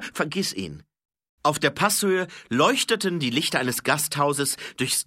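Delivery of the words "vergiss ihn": higher-pitched, firm dismissal; insistent order. Acted. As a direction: cut off the protest insistently. Repeated order over the protest. (nachdrücklicher, höherer Befehl)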